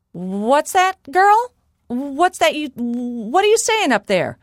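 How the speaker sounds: high-pitched wife's questioning call; giant's wife calling. Acted. Giant's wife calls up to Molly, high questioning call. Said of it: "called the giant's wife".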